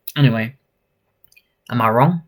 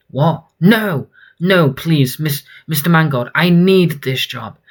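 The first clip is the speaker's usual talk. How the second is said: higher, urgent begging; acted pleading; 4 semitones higher than usual. Fired Julia begs her boss, mildly desperate pleading. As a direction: plead to hang on to the job.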